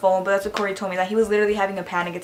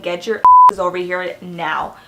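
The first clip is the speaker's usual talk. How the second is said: loud retold command down the phone; urgent order; 9 dB louder than usual. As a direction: yell it like an imitated urgent summons. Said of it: "Corey's calling Idris and he's like".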